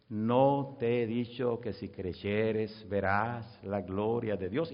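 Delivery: slow, low voice of Jesus; gently steady someone, word by word; calming reassurance. Retold or imitated.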